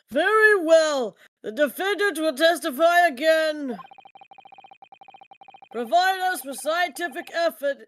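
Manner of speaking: put-on old man voice. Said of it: "that old man voice".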